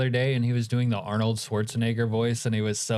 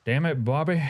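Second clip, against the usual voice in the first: "Damn it, Bobby" said higher as a quick mock Hank; Hank Hill impression; 4 semitones higher than usual. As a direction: toss off a light Hank Hill line. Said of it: "does he do a good "Damn it, Bobby".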